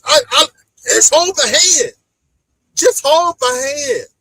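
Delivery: fake-blubber the words like a sulky kid; mock crying. Imitating the boy crying.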